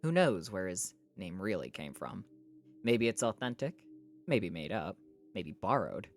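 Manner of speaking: measured audiobook-style reading; story narration. A narrator's reading. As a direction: read it out as a novel's narrator. Reads a novel aloud.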